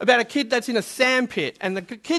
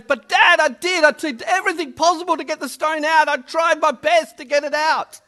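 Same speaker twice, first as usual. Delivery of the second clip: put-on higher, upset little boy pleading; lightly acted tearful kid, voice raised in pitch; crying child protesting; 5 semitones higher than usual. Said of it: "poor boy just starts crying even more".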